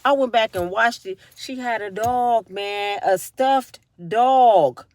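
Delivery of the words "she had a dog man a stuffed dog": slow, stunned disbelief. Real, not acted. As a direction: spell it out in disbelief. Disbelief at rewatched episode.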